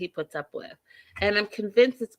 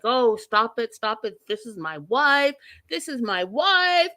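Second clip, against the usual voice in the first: hammed-up defence, building higher; mock indignant protest; 3 semitones higher than usual. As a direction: imitate a protesting husband, rising at the end. Imitating Michael defending his wife.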